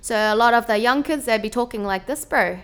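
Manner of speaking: put-on young New Zealand street accent; lazy, cheeky bro accent; Kiwi street accent. Shown as a demonstration. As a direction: talk like a Kiwi kid on the street. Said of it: "like, the street accent".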